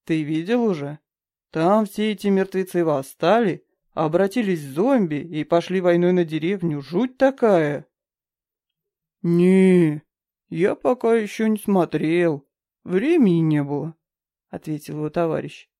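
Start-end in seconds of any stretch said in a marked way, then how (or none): 0.0-7.9 loud, eager storytelling; spooked but thrilled retelling; excited. Acted. Excited garbage man telling story. 9.2-14.0 louder, slower, easygoing reply; casual workman voice. Acted. Second garbage man replies.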